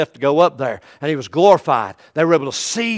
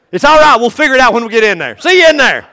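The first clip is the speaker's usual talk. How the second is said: breezy doctor; 7 semitones higher, 9 dB louder, faster than usual. Acted. Doctor dismisses worry in skit.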